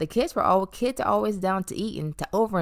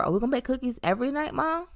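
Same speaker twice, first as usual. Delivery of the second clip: put-on excited kid voice; 8 semitones higher, faster than usual. Voicing excited kids asking mom.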